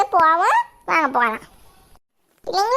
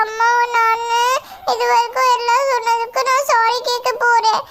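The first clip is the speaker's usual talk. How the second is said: tearful. Real, not acted. Vlogger tearful about her mother.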